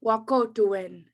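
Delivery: Wahkohtowin said slowly, syllable by syllable; slow Cree word. Shown as a demonstration. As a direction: model Wahkohtowin slowly for the crowd to repeat. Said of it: "Let's try that again".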